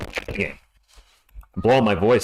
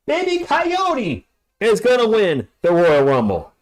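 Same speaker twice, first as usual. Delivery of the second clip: put-on hype voice; 8 semitones higher, slower than usual. Baby Coyote hype.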